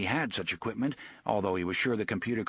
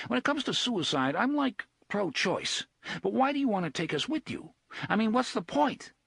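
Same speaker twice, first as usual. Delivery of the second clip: put-on higher, sarcastic young man; Eddie's sarcasm; 10 semitones higher than usual. A narrator's reading. Eddie mocking Blaine about suicide, sarcastic. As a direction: needle the machine mockingly.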